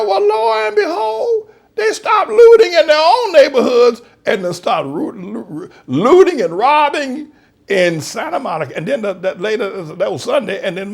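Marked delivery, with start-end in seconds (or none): 0.0-8.8 gleeful laughing. Real, not acted. Gleeful retold own remark.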